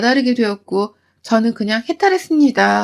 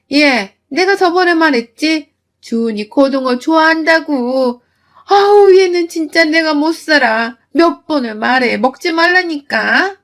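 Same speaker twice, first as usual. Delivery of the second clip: nagging mother-in-law; 3 semitones higher than usual. Acted. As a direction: nag her daughter-in-law with sharp irritation. 시어머니가 며느리를 꾸짖음. (약간 높고 큰 소리로 짜증 내며 잔소리하는 시어머니)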